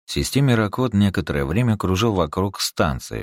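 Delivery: plain reading voice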